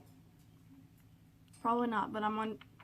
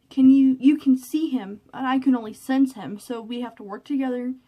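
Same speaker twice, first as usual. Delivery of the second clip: retold quote; 3 semitones higher, 11 dB louder than usual. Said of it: "she says".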